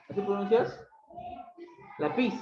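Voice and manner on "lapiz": "lápiz" stressed on the last syllable, la-PIZ; wrong stress demonstrated. Shown as a demonstration. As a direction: show the mistaken "lápiz" with the weight on PIZ. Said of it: "eso es una otra cosa".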